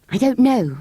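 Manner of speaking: put-on girl voice. A narrator's reading. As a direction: speak up like a girl. Anthea, girl voice.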